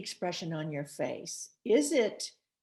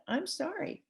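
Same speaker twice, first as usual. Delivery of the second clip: higher, softer, sincere sorry; humble apology; 9 semitones higher, 6 dB quieter than usual. Shown as a demonstration. Demo of a good apology to a partner, soft and humble. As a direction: simply own it, gently. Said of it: "it's powerful".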